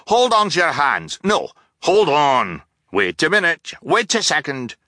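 high, loud rapid-fire orders, cheerful and scattered; cheerful scattered shouting. Acted. Captain shouting jumbled ladder instructions at the orphans, cheerful. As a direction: bark silly commands cheerfully, changing mind constantly.

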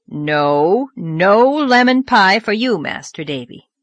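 loud, slow, stern no; firm refusal. Acted. Marilla pushing Davy toward the hall, loud firm refusal. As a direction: shut down the boy's request.

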